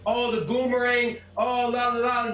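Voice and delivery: imitating someone making light of it; dismissive mimicry; mocking joker. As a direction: parody his joking, in a sing-song. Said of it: "he's making a joke about it".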